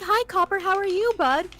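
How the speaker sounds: cooing to a cat. Retold or imitated. Greeting a cat at work.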